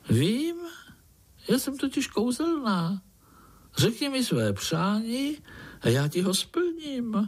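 a proud little magic fly; golden fly voice. A narrator's reading.

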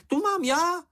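very high, squeaky claim; Sniff piping up. A narrator's reading. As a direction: pipe up high and possessive. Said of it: "ozval se Čenich". (vysoký pištivý hlásek, majetnicky)

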